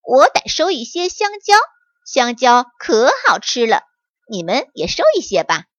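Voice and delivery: bright, cheerful little monkey; happy monkey. Acted. Little monkey boasting to friends, cheerfully. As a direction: chirp it happily like a little monkey. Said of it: "小猴高兴地说".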